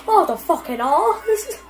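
put-on very British accent. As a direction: lean into the British vowels. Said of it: "my very British accent came out".

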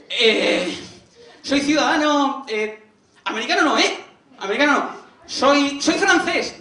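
high, loud, halting mock panic; panicked stammer. American caught in Vietnam by the enemy, mock panicked stammer. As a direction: stall and grope for a safer answer.

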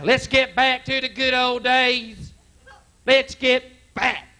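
high, slow preaching chant; preacher voice. Retold or imitated. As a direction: preach it like a fired-up pastor. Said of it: "That's their theme now".

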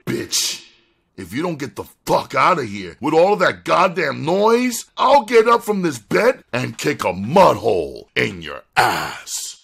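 loud, threatening man roused from bed; harsh masculine voice. A narrator's reading. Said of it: "A harsh, masculine voice responded".

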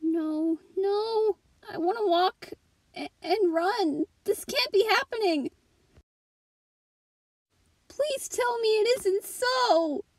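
distraught disbelief. Acted. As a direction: plead as if refusing to believe it. Devastated by bad news, pleading.

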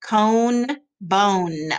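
"Cone, bone" with the -one endings drawn out; ending sound stressed. Shown as a demonstration. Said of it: "Do you hear the ending sound?".

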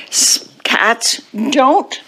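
slow, spaced-out words; writing aloud. Acted. Teacher writing on the board, slow and deliberate. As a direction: say it slowly as if writing each word.

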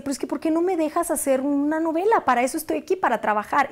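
high-pitched pleading indignation; retold angry protest. Student demanding her mentor let her work, indignant. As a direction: protest as if wronged, in a mildly mocking retelling. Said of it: "estaba muy enojada".

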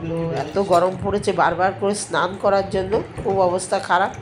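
blocked nose and throat from a cold; stuffy nose. Real, not acted. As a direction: speak through a stuffed-up nose. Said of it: "একদম নাক বন্ধ, গলা বন্ধ".

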